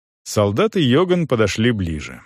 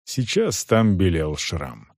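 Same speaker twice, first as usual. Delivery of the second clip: usual speaking voice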